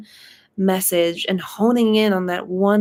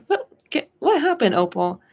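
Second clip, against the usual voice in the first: concerned spirit husband; 5 semitones higher than usual. Retold or imitated. Late husband voiced, slapping his knee.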